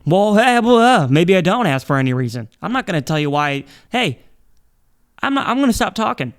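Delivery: half-joking loud rant; worked-up rant. Real, not acted. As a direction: get carried away scolding the listeners.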